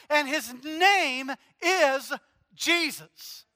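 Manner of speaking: slow swell to the name Jesus; building preaching. Acted. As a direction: preach it up to the climax. Preaching climax.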